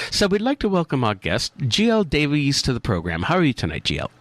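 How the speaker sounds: mock British presenter accent; put-on British accent. American host welcoming the guest for a laugh, fake British accent. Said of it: "Say it with a British accent".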